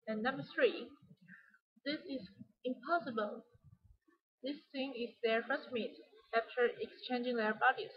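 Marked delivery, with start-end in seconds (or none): 1.8-3.4 "impossible" set apart and stressed; shocked emphasis on "impossible". Shown as a demonstration. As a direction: lean on the word "impossible". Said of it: "put stress on the word impossible".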